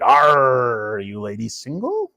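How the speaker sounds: lightly voiced old pirate; mock pirate come-on; a hint of an old sea dog; pirate pickup line. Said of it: "the old pirate said".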